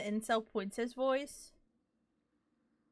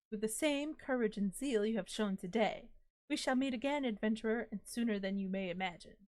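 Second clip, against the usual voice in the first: grand spirit voice. Acted. Reading the disembodied spirit's lines to the player, courtly. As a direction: read it like a polite, flowery ghost.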